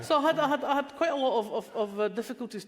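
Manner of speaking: real laughter carrying the words; laughing. Real, not acted. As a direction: talk on while still laughing. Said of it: "laughing after the joke".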